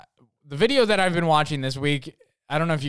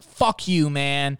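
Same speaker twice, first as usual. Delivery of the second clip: higher, louder imitated angry retort; mock-angry comeback, pitched up; mock fighting; 3 semitones higher, 4 dB louder, much slower than usual. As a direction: act out a drunk squabble. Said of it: "they, like, started fighting".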